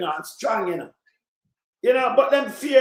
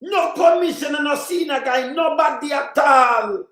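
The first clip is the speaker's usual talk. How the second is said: higher and louder, slowing to a shouted end; rising angry shout; 3 semitones higher, 4 dB louder than usual. Real, not acted. Vlogger denouncing the kill order, building to a shout. Escalating rant.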